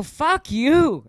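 high mock shout; a high, retold fuck-you shout. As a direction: snap it back at the heckler. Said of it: "started shouting at him".

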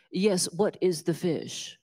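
slow, drawn-out snooty question; mock snooty. The snooty customer asking the small-town waitress, slow and drawn out. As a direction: ask like a smug city snob. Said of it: "And I was being a jerk".

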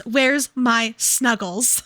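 slow, drawn-out plea; drawn-out repeat. Acted. Co-host repeats the character's whiny plea, slowly. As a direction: stretch it out like a pout. Quoting the book line twice.

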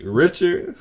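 high, rising startled call of the name; high mock-shocked question. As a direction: react like you can't believe who's walking up. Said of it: "Chris Rock's like".

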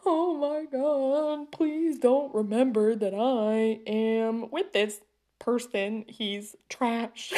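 slow, drawn-out embarrassed plea; a hint of a cringing inner monologue; mortified inner voice. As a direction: beg the room silently to forget. Inner panic at the restaurant.

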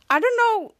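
mock exasperation; flustered protest. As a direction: blurt it out defensively. Kid Danger jealous, flustered.

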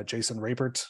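"Rapert" with a crisply released final T; hard final T. Real, not acted. Lawyer careful not to defame a lawmaker, hard T on "Rapert". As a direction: land hard on the T ending "Rapert". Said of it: "land pretty hard on the T".

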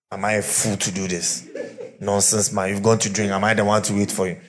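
laughing mock wife scoffing at her husband. Preacher voicing a defiant wife, laughing.

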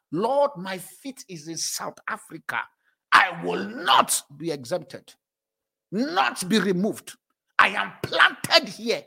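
slow, deliberate declaring prayer; slow solemn prayer of declaration. Shown as a demonstration. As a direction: pray it firmly, word by word. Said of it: "one of the prayers I pray".

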